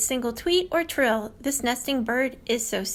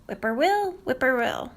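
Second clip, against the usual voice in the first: whippoorwill call. Retold or imitated. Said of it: "Whippoorwill has a favorite trill".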